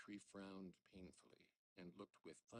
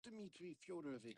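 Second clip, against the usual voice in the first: high, loud, strained yell; unnatural yell; 10 semitones higher, 6 dB louder than usual. Acted. Father yelling at his son in a strange high voice. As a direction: shriek the name out of character. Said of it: "yelled ... in an unnatural voice".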